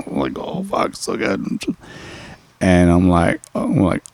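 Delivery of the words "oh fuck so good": soft, much quieter murmur; murmured quote. Retold or imitated. Retelling his own soft moan of pleasure. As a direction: hush it like you're lost in it.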